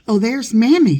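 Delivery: high, loud delighted call; excited shout. Acted. Girl spotting her beloved nurse, delighted shout. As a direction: burst out with glee.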